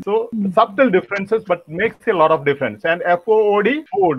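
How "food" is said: "food" with a long OO; long vowel. Shown as a demonstration. Trainer demonstrates long vowels, long-vowel pronunciation. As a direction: lengthen the OO in "food". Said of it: "long vowel sound".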